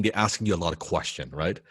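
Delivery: normal talking voice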